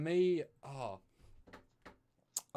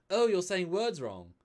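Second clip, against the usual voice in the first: higher, louder, slow mocking correction; mocking Mariner; 7 semitones higher, 8 dB louder, slower than usual. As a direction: scold him like he's the one saying it wrong. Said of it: "she'll say".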